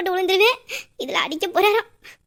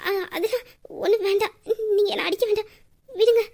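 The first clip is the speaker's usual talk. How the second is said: softer, half-crying, half-laughing plea; tearful plea; 3 dB quieter than usual. Acted. Wife begs her husband to let her go, tearful and giggly. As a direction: beg him to let go through tears and giggles.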